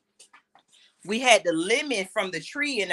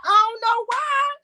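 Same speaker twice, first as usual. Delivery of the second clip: talking through high giggles; words bubbling up through laughter; laughing; 12 semitones higher than usual. Real, not acted. Laughing to viewers about the family mocking her socks.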